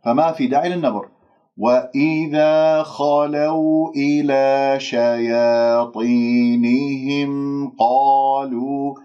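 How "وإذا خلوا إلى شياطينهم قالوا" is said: slow, sustained tajweed chant; Quran recitation. Shown as a demonstration. Teacher recites the verse for students: slow tajweed recitation. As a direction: recite evenly with long measured vowels.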